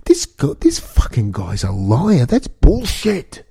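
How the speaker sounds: high squeaky mock voice, words half whispered; mock outraged viewer. Podcaster mimics a family at the TV, high mock voice. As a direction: play an indignant viewer yelling at the TV news. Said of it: "they should get up and say".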